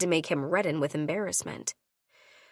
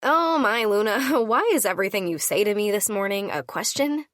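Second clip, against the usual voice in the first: louder, exasperated outburst with a laugh; exasperated snap; 2 semitones higher, 4 dB louder than usual. Acted. Heroine losing patience with Nikon, exasperated snap. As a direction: snap it out, fed up with the questions. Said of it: "I snapped".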